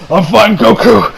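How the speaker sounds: slow, strained-sounding mock reassurance; lightly voiced injured warrior; hurt but stoic. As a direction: act a wounded fighter insisting he's okay. Acts injured Piccolo insisting he's okay.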